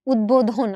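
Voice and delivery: উদ্বোধন said "ud-bodhon" with a b; careful উদ্বোধন, b clearly heard; modelled pronunciation. Shown as a demonstration. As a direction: sound the ব in উদ্বোধন. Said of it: "এই যে এরকম করে করি না".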